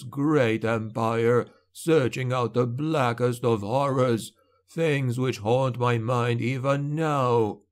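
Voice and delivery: put-on an old knight haunted by memory; weary old knight. Old lord recalls his past.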